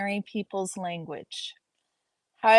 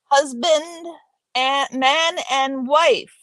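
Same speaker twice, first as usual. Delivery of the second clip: raised, louder, drawn-out mock proclamation; hammed-up wedding quote; 4 semitones higher, 5 dB louder, slower than usual. Reader quotes a wedding scene for listeners, hammed-up and raised. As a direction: declare it in a playful, stretched-out movie-quote voice.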